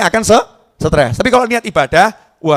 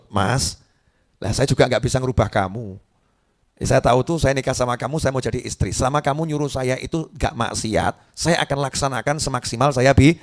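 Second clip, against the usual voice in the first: softer, patient wife; calm wife; 3 dB quieter than usual. Retold or imitated. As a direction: gently explain to her husband. Istri sabar menjawab suami. (istri sabar menjawab suami dengan lembut)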